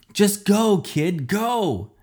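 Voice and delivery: put-on yelling at the kid to run. A narrator's reading. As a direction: shout him away from danger. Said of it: "I yelled".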